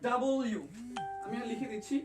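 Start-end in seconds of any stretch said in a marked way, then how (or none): 0.1-0.6 "ডাবল ইউ" as two clear parts; correct letter name. Shown as a demonstration. Teacher showing commenters the real name of W, correct letter name. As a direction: say "ডাবল ইউ" with a full ডাবল, then ইউ. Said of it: "এটার মূল উচ্চারণ হবে".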